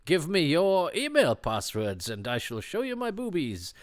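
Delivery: high, sultry seductress voice; sultry lady voice. Pretend. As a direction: tease it out like a phone temptress. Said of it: "that's a sultry lady voice".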